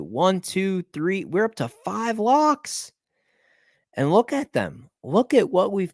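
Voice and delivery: high, slow, gloating count; gleeful. Real, not acted. Bettor gloating to viewers over his lock count, high and slow. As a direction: savour the number of locks.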